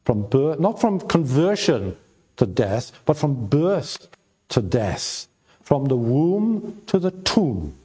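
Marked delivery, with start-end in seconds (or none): 0.0-5.3 preacher contrasting "from birth" with "from conversion"; contrastive stress. Shown as a demonstration. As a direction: set "birth" against "conversion", then fall on "death". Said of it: "Do you notice?".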